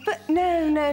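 sharp gasp then a protest; gasp, caught off guard; shocked gasp. Acted. Alice shocked by the pregnancy news.

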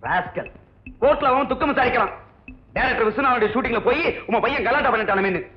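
angry yelling. Acted. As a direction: berate your son for the trouble he caused. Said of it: "இப்படி அனாவசியமா கத்தாதீங்க". (மகனைக் கத்தித் திட்டும் அப்பா)

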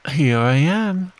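high, slow little squeak. Acted. Roo calling out to Eeyore, squeaked high. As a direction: pipe it up like a small child. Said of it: "squeaked Roo".

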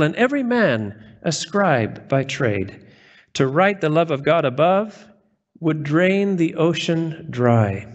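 slow, solemn poetry recitation; measured reverent hymn reading; recited hymn. Acted. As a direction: read each line like a sacred poem.

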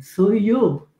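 lightly voiced strong little green man; a hint of a firm alien announcing himself; firm first words, lightly acted. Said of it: "con una voz así todo, toda fuerte".

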